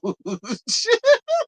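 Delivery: squealing high laugh; high cackle. Real, not acted. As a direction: burst into a shrill cackle. Cracks up at Wendy quote.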